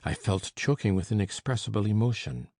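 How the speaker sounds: usual speaking voice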